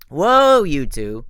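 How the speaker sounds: loud high startled cry; nervous. A narrator's reading. Grover breaking up the girls' quarrel, loud and nervous. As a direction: jump in to stop the fight. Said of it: "Grover said nervously".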